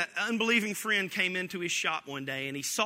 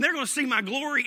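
gleeful God; 7 semitones higher, 6 dB louder, faster than usual. Retold or imitated. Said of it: "he's going".

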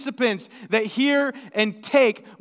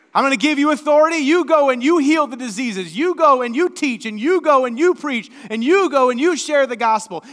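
loud, rising charge, fast at the end; Jesus commissioning; 4 semitones higher, 8 dB louder than usual. Acted. Jesus loudly sending his disciples out. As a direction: send them out with full force.

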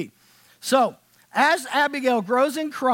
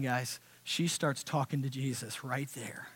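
breathy whisper, full of awe; hushed whisper; 9 semitones lower, 13 dB quieter than usual. Real, not acted. Preacher telling the congregation of his daughter's prayer, whispered. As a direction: hush the room as if not to disturb.

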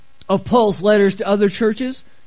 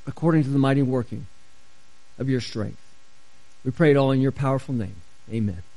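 public prayer; 3 semitones lower, faster than usual. Real, not acted. Pastor prays Paul's prayer for the congregation, earnest prayer. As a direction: pray aloud, dropping low toward the amen.

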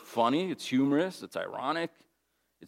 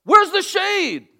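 much higher, louder, slow drawn-out disbelief; outraged surprise; 12 dB louder, much slower than usual. Retold or imitated. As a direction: wail at the missing shade. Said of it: "now he's like".

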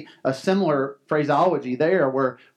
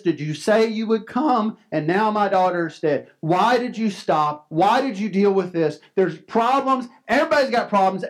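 higher, pained pleading questions; a grieving father questioning Jesus, pitched up; mild acted anguish, raised pitch; 5 semitones higher than usual. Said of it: "the confusion going through his mind".

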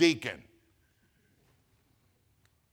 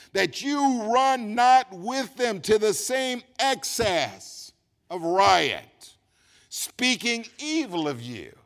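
forceful scripture reading; 5 semitones higher, 7 dB louder, slower than usual. Acted.

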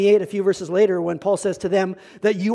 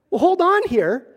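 higher, sharper mock irritated voice; ticked-off mother; 9 semitones higher than usual. Pastor retells the upset mother, lightly mock irritated. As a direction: play the annoyed mother of the bride. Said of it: "she was a little ticked off".

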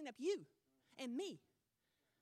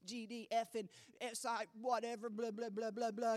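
a hammed-up burst of loud cursing, voice pitched down; mock cursing; 6 semitones lower, 6 dB louder than usual. Preacher imitating a churchgoer cursing at home, mock loud rant. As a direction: play the hypocrite spewing vile words, lightly mocking. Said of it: "as you're saying".

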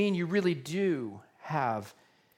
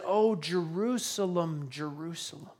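mild weeping lament; 4 dB quieter than usual. Retold or imitated. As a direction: grieve over the city, voice falling away. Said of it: "he weeps".

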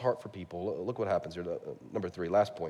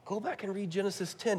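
soft pleading God; 7 semitones higher, 9 dB quieter than usual. Retold or imitated. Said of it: "I imagine God saying".

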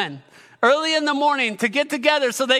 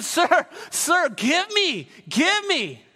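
higher, insistent repeated plea; eager pleading; 4 semitones higher, slower than usual. Acted. Woman at the well begging Jesus for living water, eager. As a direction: beg for it eagerly, voice lifted.

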